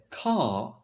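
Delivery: "car" said as a long "cah"; "car" with only the open vowel at the end; silent R. Shown as a demonstration. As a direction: drop the R from "car", British RP style. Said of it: "the R vanished".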